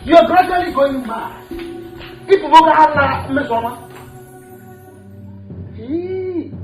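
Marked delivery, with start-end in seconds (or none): 0.0-3.8 alarmed outburst. Acted. Brother alarmed at sister.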